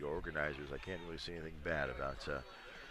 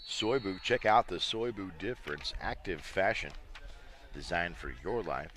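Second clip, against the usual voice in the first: upbeat, punched-up promo read; brisk announcer read, brand names and web addresses hit firmly; sponsor ad read; 4 dB louder than usual. Real, not acted. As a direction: sell it like a live sponsor spot. Reads sponsor messages during timeout.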